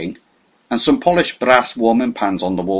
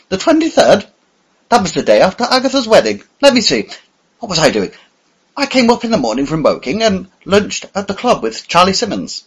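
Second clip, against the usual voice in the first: higher, flustered plump man picking words; stammering; 8 semitones higher, 4 dB louder than usual. A narrator's reading. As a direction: chatter nervously to prove innocence. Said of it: "He stammered a little, like a man picking his words".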